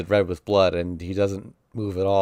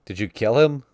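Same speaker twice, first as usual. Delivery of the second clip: adults yelling; 3 semitones higher, 4 dB louder than usual. Acted. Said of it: "The adults are yelling at me".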